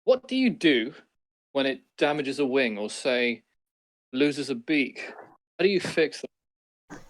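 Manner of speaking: character voice. Acted. Player voices his character questioning gnome.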